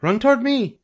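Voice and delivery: very high gander yell. A narrator's reading. The gander directs Wilbur during the chase, yelling. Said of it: "yelled the gander".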